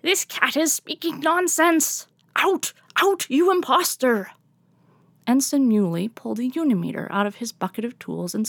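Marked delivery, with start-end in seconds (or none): 0.0-4.3 high, indignant cat witch scolding; high-pitched scolding witch cat. Acted. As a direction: shoo the imposter out in a high witchy voice.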